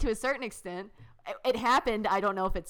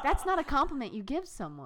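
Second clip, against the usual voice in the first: laughing; 6 semitones higher than usual. Retold or imitated. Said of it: "I'm like".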